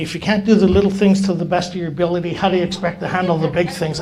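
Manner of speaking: brisk, lightly voiced old-timer's rebuke; old-timer's lecture. Old-timer behind him as he sets chairs, brisk lecture. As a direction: recite the mentor's stock scolding quickly. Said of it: "those old timers teaching me how to do chairs".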